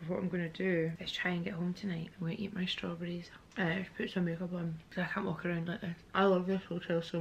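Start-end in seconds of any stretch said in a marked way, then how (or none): 0.3-5.2 soft whispered aside. Real, not acted. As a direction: whisper it to the camera. Quiet hotel room update.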